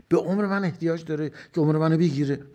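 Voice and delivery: forceful. Acted. Rhetorical question at full force.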